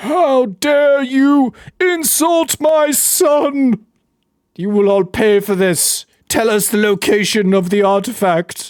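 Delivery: huge, slow, booming giant voice. Voicing a skeleton hill giant answering a remark about its size, in a booming hill giant voice. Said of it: "This booming voice over here by Ruin's cage".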